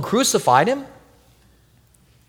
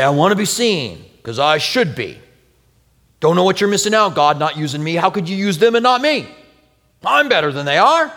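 mock proud person; 2 semitones higher than usual. Voicing proud person to God.

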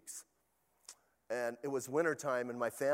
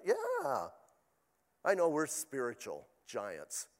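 playful sarcasm at the congregation; sarcastic; slower than usual. Acted. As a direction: say it with heavy sarcasm. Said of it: "That was sarcasm".

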